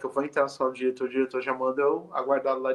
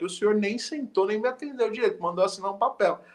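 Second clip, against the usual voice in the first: indignant father; 5 semitones higher than usual. Retold or imitated. Father confronts the principal.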